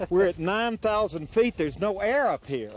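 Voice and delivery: winded from the climb at altitude; breathless, gasping between words; out of breath. Real, not acted. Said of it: "I'm also out of breath".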